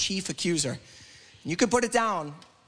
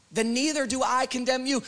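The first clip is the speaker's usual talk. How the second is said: lifted, flowing repeat; 6 semitones higher than usual. Acted. Repeats the verse, lifting into preaching.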